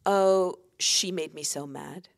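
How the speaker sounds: a hint of a sulky child; imitating whiny kids. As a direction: mimic a kid blaming someone else. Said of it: "You know how your kids say".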